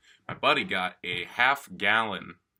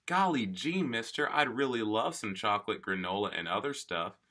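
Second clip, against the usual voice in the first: put-on wholesome 1950s kid; 3 semitones higher than usual. Mock quote of an eager kid.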